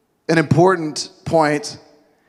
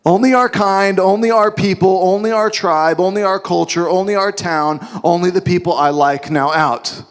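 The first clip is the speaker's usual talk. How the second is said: louder, gloating and smug; smug exclusion; 2 semitones higher, 3 dB louder than usual. Acted. Disciples gloating to the woman, smug and louder. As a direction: rub it in like a gatekeeper. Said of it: "they're like".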